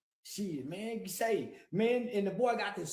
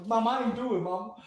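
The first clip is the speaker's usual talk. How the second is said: mock crying plea; 4 dB louder, faster than usual. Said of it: "I went to crying".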